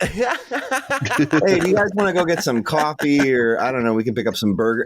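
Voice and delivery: put-on casual, everyday American accent; offhand American-accented chat. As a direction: switch into an easygoing American accent for the prank. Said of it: "an American accent".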